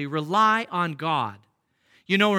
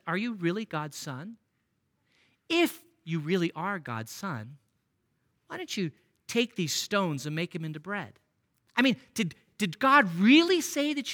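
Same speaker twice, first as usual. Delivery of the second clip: soft, doubting tempter voice, much softer; taunting devil; 4 dB quieter than usual. Retold or imitated. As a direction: sow doubt quietly, like the devil. Devil taunts Jesus about sonship.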